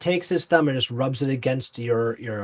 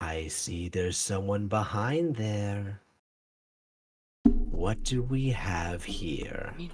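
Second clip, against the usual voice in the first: very slow, drawn-out, low menacing half-whisper; 4 semitones lower, 6 dB quieter than usual. Voicing a creature leaning close to a player: half-whispering in character. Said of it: "he then whispers to you".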